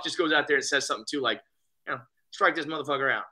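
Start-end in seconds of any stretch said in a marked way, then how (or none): 2.3-3.2 a hint of the manager's accent, casually tossed off; Buck's accent. Manager visiting his pitcher on the mound, lightly imitated accent. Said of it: "in his little Buck way".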